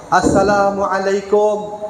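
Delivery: low, slow, gentle salaam; gentle greeting. Shown as a demonstration. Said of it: "Suaranya rendah sikit".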